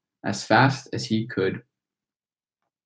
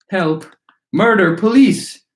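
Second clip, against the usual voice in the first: climbing, ever louder high screams; hysterical scream; 8 semitones higher, 6 dB louder than usual. A narrator's reading. Mother screaming hysterically as her son is sucked up the pipe. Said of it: "screamed Missus Gloop".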